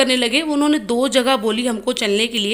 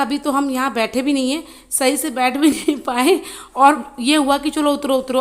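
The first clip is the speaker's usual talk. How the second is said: laughing while retelling. Retold or imitated. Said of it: "मुझे बहुत हंसी आ रही थी".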